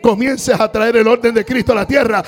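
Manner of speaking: high, loud preacher's roar; fiery sermon climax; shouted preaching. Acted. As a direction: lift the church with a shout.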